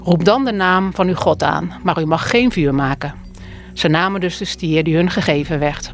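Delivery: measured, solemn scripture reading; Bible reading. Acted. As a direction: read the Bible passage aloud to the congregation. Voorlezen uit de Bijbel. (plechtig voorlezen uit de Bijbel)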